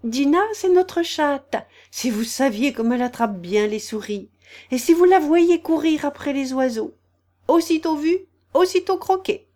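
high, loud, delighted boasting; eager storybook girl, climbing in pitch. A narrator's reading. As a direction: gush proudly about a favourite. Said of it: "Alice répondit avec empressement".

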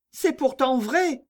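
high, slow, wondering murmur; murmuring Charlotte. A narrator's reading. Charlotte agrees, struck by the idea, murmuring. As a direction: lift the voice and linger on it. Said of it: "murmura Charlotte".

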